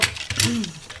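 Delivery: a quiet rough clearing of the throat. Real, not acted. Crafter with an itchy throat, clearing it. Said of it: "my throat".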